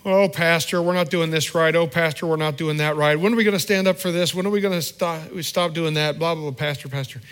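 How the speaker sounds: mock whining, pestering the pastor; whiny complaining member. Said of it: "is complaining".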